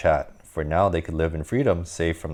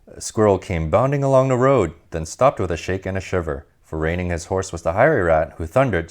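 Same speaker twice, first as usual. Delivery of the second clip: lively read-aloud storytelling voice; storybook narration. A narrator's reading. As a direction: read it like a bedtime picture book for kids.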